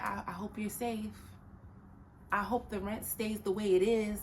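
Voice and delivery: gently hopeful wish; lightly warm, easy wish; positive phrasing. Shown as a demonstration. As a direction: say it as a kind blessing. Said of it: "The energy is different".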